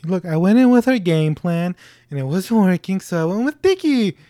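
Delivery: high, out-of-breath impression; hammed-up breathless, exasperated voice; Mark Wahlberg. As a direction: plead as if short of breath. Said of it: "He's always out of breath".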